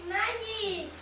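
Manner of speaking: slow, loud triumphant reveal; excited reveal. Acted. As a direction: announce the magic proudly. Trick reveal to audience.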